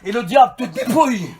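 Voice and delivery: impassioned preaching, pitch climbing mid-run; full-force preaching. Real, not acted. Preacher defending nights of prayer against emotional songs, full-force preaching. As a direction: build to a shouted pulpit protest.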